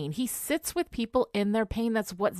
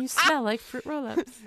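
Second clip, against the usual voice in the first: Giles ringtone voice; 2 semitones higher than usual. Retold or imitated. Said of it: "I'll make that into a ringtone".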